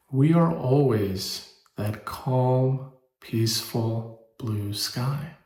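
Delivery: slow, soothing, spacious delivery; calm and slow. Acted. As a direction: let each word settle gently. Calm image of the sky.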